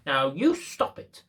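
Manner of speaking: slow, teasing, rising "Now you stop it"; playful mock scolding. Shown as a demonstration. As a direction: say it like you're playing with a toy. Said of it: "What's my voice saying there?".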